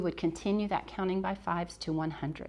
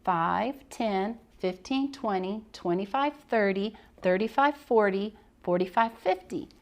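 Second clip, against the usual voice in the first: counting aloud. Shown as a demonstration. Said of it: "we would start again".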